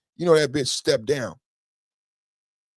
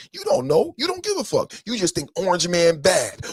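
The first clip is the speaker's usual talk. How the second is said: angry outburst; 3 semitones higher than usual. Real, not acted. Scolding chat viewers, high exasperated shout. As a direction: voice jumps way up in exasperation.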